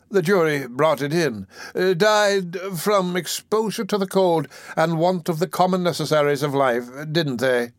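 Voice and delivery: an oily undertaker angling for profit; fawning undertaker. Acted. Undertaker speaks to beadle.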